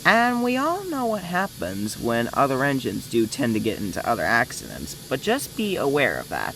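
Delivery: put-on character accent with a swooping pitch; Bertram accent. Shown as a demonstration. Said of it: "my accent of him".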